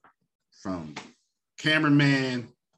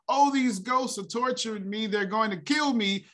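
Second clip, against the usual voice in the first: mock screaming in pain; 11 semitones higher than usual. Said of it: "screaming and yelling in pain".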